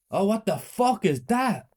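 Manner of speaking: high, loud, slow shocked scream. A narrator's reading. Teacher seeing the body, shocked scream. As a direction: shriek at the horror on the table. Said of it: "she screamed".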